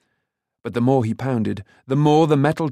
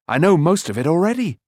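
high, loud boast; calling out; 6 semitones higher, 5 dB louder than usual. A narrator's reading. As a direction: call out cockily, pitch up. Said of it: "he called".

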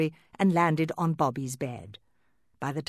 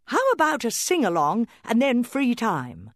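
cheerful mother doll; 8 semitones higher, 6 dB louder than usual. Acted. Mama doll proposes fun.

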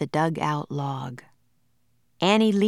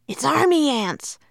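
high, louder alarmed cry; 9 semitones higher, 4 dB louder than usual. A narrator's reading. Jack warns Annie of the ants, alarmed cry. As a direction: shout the warning in fright. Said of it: "cried Jack".

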